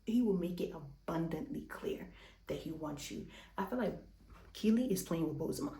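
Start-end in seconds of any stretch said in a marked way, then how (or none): 3.6-5.7 breathless and winded; out of breath. Real, not acted. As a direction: talk while catching your breath. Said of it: "I'm so much out of breath".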